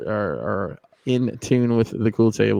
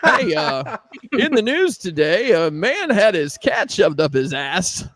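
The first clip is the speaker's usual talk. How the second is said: radio DJ voice; 4 semitones higher than usual. Shown as a demonstration. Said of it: "Dust Mites Brink in the morning".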